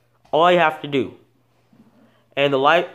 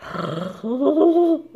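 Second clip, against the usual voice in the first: platypus noise attempt; 11 semitones higher than usual. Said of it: "they sound like that".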